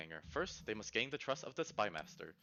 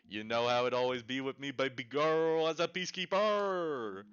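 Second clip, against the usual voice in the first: swaggering king voice; 5 dB louder than usual. Acted. Player voices character to advisor.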